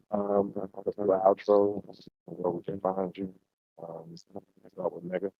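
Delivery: gargly, muffled voice. Real, not acted. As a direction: talk like through a bad mic gargle. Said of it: "You sound kinda gargly".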